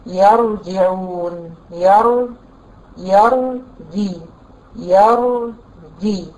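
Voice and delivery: يرجعون with the sakin ra held very slowly and heavy; drawn-out demonstration. Shown as a demonstration. Teacher showing the heavy sakin ra in يرجعون. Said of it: "نجيب أمثلة".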